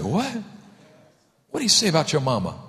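mock surprise. Pastor acts surprised friend.

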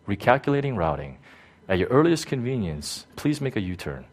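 lightly voiced GPS, softening at the end; understated, unbothered navigation prompt. GPS redirecting a driver who got lost, lightly imitated GPS voice. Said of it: "G P S says".

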